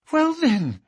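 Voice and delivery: put-on young woman crying out. A narrator's reading. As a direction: call out to challenge him. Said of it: "she cried".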